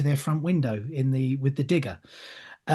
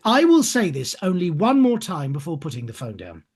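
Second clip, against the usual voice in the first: a hint of a stern casting director, lower by the end; firm, no-nonsense final warning, dropping lower; 4 semitones lower than usual. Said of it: "her tone of voice suddenly changed".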